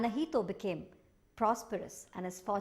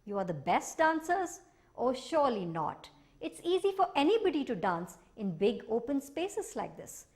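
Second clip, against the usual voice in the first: sly teasing; 4 semitones higher than usual. Acted. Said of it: "said Hanahito slyly".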